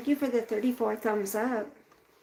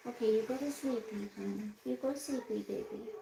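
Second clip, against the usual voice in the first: softer, tender sleepy coo; soothing to sleep; 7 dB quieter than usual. Real, not acted. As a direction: gently lull the dog to sleep.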